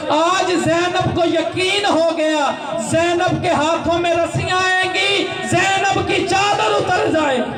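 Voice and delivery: from urgent preaching to a full sung wail; rising lament cry. Acted. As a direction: build the grief until it breaks into a near-sung shout. Sermon climax, Zainab's lament.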